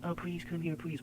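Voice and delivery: hammed-up high-pitched plea; mock begging. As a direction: mimic a needy person begging. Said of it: "you don't beg".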